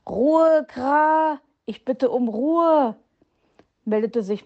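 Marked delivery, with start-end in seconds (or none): 0.1-3.0 laut und hoch zur Ruhe gerufen, dann gedehnt; Ruhe rufen. A narrator's reading. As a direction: energischer Ordnungsruf. Meister Schwarzrock ruft zur Ruhe. (laut und höher zur Ruhe gerufen)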